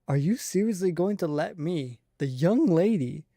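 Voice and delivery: a lightly voiced, proud little lady, drawing out young lady; haughty young lady voice. Streamer voicing the character in a lightly haughty, slowed young-lady voice. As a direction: puff up and demand it like a spoiled young lady.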